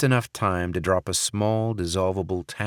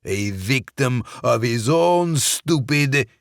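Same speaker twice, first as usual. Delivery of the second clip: choking mid-sentence; 5 semitones higher, 5 dB louder, slower than usual. Acted. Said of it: "Sokolov's words stopped".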